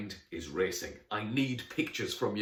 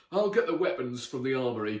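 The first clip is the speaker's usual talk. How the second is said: raised, louder knightly call; 5 semitones higher, 6 dB louder than usual. Acted. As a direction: call across to the others. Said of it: "called Don".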